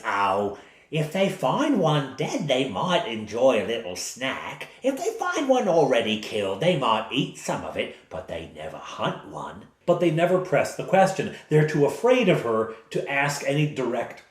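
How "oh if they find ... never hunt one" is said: lightly voiced old woman. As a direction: reassure them sweetly as the old lady. GM reads the old woman's answer.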